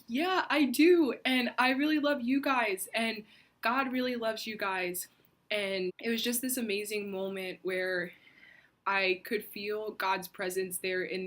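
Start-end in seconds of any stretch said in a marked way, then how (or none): 0.1-5.1 loud, high and full of feeling; a retold outburst of love, louder and higher; heartfelt exclaim. Retelling her heartfelt reply.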